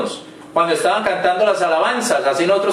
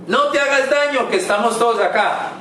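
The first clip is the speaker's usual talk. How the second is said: retold urgent shout; 4 semitones higher than usual. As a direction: call it out higher, easing down at the end. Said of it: "Pablo le gritó".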